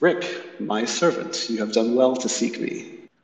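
soft, slow female voice, taking its time. A voice speaks through the party's tiefling to Wrick, soft Queen of Air and Darkness. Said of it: "soft female voice".

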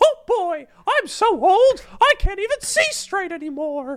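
very high, loud, squeaky, bouncy cartoon voice. Asked whether Mickey Mouse comments on the videos, the speaker tries: Mickey Mouse voice. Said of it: "that's actually really good".

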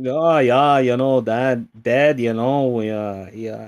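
horrible fake Midwest accent. Telling a story about a dad, the speaker slips into a horrible midwest accent. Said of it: "Your horrible Midwest accent".

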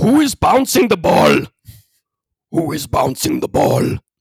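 loud, high, screeching possessed demon voice. Recalling the man on the bus radio asking about a bouncing ball, Pazuzu demon voice. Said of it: "He sounded like Pazuzu in The Exorcist".

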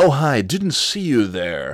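put-on goofy character voice, high and swooping. Actor showing how his golf character talked: put-on jackass character voice. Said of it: "kind of talked a little bit like this".

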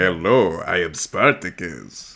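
dropped, low, deep-chested delivery. Speaker quotes a performer greeting at the door, in a low voice. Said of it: "like that low voice".

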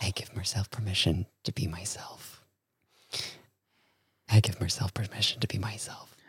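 whispered muttering under the breath. A character at the deck's edge looking out at an asteroid, muttering under his breath. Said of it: "he's just muttering".

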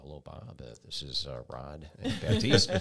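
very low, deep, rich-toned voice. Retelling a first phone call from a caller: imitating Rod's deep, rich voice. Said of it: "I hear this deep, rich voice".

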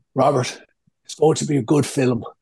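put-on Galway Irish accent. Retelling what your mother used to say to you, imitating your mother's Galway accent. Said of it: "my mother in her galway accent".

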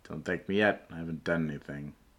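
fast, flat, bored-sounding deadpan. A narrator voices a woman answering the group's thanks, very deadpan. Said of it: "Very deadpan".

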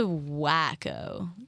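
punched, heavy stress on "wack" in "wacko". Calling someone a wacko to the others: stress on wack in wacko. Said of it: "Emphasis on the whack".

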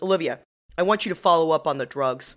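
ordinary talk

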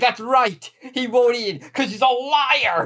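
put-on very high, furious creature voice. Retelling a cartoon scene: imitating a furious Agumon. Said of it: "Agumon is furious in this bit".

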